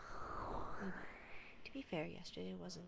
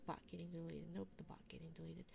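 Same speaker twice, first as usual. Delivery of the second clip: hushed late-night whisper; much faster than usual. Real, not acted.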